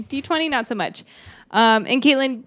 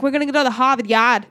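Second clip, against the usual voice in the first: mock Boston accent. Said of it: "Be like".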